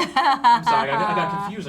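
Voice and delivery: high, loud laughing apology. Real, not acted.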